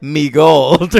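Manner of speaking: a hint of a cartoon leprechaun saying "Me gold"; cartoon Irish accent. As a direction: say "Me gold" in a light stage-Irish lilt. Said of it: "he'll say things like".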